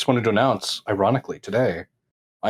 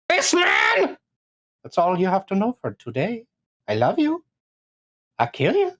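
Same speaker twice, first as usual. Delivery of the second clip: high character voice; 6 semitones higher than usual. Pretend. Playing a character.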